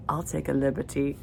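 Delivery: a hint of amateur Cockney; attempted Cockney accent. Reader quoting Cam's flirty reply to Daisy, attempted Cockney accent. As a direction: have a tentative go at Cockney, a bit softly. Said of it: "when he says in his Cockney accent".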